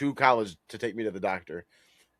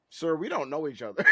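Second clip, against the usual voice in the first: mock shout; 6 semitones higher than usual. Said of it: "I would have been like".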